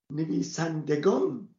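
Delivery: نویسندگان spelled out slowly, the د said with a fatha and no ه; slow demo. Shown as a demonstration. Teacher demonstrating to the class how نویسندگان is pronounced, slow and careful. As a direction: say نویسندگان slowly so the fatha before گان is heard. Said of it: "به جای اونهه فتح نیست".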